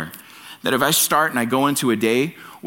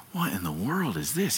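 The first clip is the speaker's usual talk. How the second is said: whispered, rising into a question; startled whisper; 9 dB quieter than usual. Retold or imitated. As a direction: hush it like a spooked burglar. Startled burglar hears parrot.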